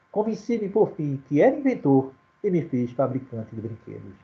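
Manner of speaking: steady, recited sonnet reading; poem recital. Acted. Teacher reading Walter's sonnet to the class, recited verse. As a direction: let each rhyme settle at the line end.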